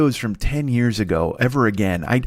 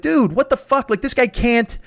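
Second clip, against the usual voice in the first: much higher, indignant appeal; acted complaint to referees; 10 semitones higher than usual. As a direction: protest to the refs in mock outrage. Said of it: "he starts calling the refs over".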